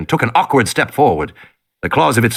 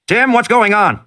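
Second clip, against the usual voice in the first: worried man on radio; 10 semitones higher than usual. Acted. Man calls over radio.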